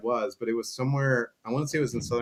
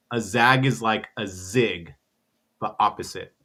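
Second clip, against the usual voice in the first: put-on drunk fan's retort; 3 semitones lower than usual. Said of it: "he leans in and he goes".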